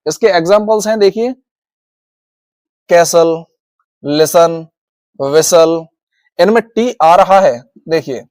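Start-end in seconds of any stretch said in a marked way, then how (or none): 2.9-5.8 कैसल, लिसन, विसल with no t sound at all; silent T. Shown as a demonstration. Teacher showing silent T examples, no t heard in कैसल, लिसन, विसल. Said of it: "अब है silent टी".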